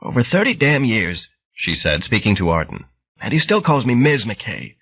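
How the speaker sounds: lightly voiced frail old lady; old woman voice. Bright Girl voiced.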